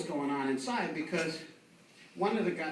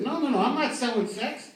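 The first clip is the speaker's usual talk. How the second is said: a hint of a sassy woman, higher; 5 semitones higher, 4 dB louder than usual. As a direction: lightly voice a sassy hooker. Prostitute voiced in story.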